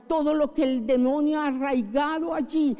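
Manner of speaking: impassioned plea to the Holy Spirit; fervent prayer. Acted. Pastor asking the Spirit to cleanse speech, impassioned prayer. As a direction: cry out the prayer, then settle. Pastor prays aloud again.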